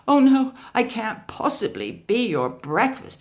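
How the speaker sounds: high, loud panicked gabble; frightened mouse deer gabbling; gabbled. Acted. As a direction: blurt it out in a panic. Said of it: "he gabbled".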